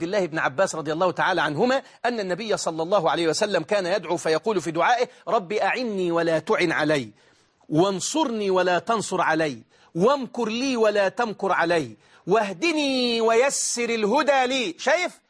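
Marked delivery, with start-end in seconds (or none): 5.3-14.7 measured prayer with long drawn vowels; supplication recitation. Acted. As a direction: recite each petition apart, slowing towards the end. (دعاء متأنٍّ بمدّ أواخر الجمل)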